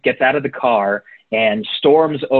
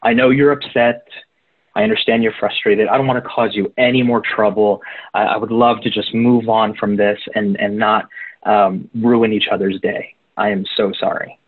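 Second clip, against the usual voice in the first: a touch quieter, calm apology. Retold or imitated. Imagined driver apologizing to a road rager, mildly calm. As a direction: gently talk down an angry driver. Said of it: "real, real calmly, real quietly".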